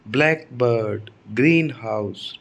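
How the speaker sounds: ब्लैकबर्ड and ग्रीनहाउस slowly, stressed on BLACK and GREEN; stress at the start. Shown as a demonstration. Teacher showing noun stress, slow with the first word stressed. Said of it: "एकदम शुरुआत में stress आएगा".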